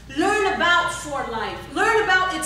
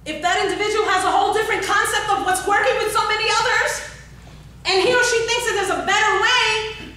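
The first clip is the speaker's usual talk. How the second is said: louder and higher, fast scolding rant; 5 semitones higher, 4 dB louder, faster than usual. Real, not acted. Speaker scolding the audience about people who won't learn, loud and fast. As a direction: scold them hard and quickly, voice up. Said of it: "am I scolding anybody?".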